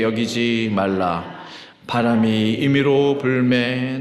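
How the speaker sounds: slow, measured congregational recitation; even, drawn-out Bible reading; unison scripture reading. Real, not acted. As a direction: read slowly so a congregation can follow.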